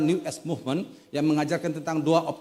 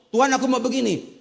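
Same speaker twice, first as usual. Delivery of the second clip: higher-pitched mock insistent prayer; insistent demand; 6 semitones higher, 3 dB louder than usual. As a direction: imitate someone stubbornly demanding their way. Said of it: "orang yang ngotot". (menirukan orang ngotot menuntut)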